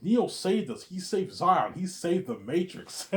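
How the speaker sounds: high, loud pleading cry; high emotional plea. Retold or imitated.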